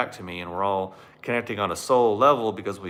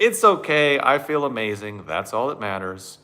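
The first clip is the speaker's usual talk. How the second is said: high, loud chirpy dismissal; giddy denial; 3 semitones higher, 6 dB louder than usual. Acted. Mocking his blissed-out self ignoring the sink, giddy. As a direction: brush it off with a big grin.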